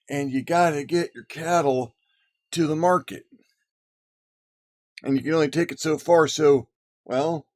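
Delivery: lightly put-on cowboy twang. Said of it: "I'm going to lapse into my cowboy voice".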